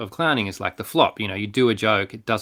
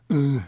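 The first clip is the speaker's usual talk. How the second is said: disdainful grunt; 4 semitones higher than usual. Retold or imitated. Imitates rough teenage girl's rebuff.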